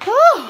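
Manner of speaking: high, loud exhaled whew; weary whew. Real, not acted. Cook worn out after long cooking, weary whew. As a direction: blow out a big relieved breath.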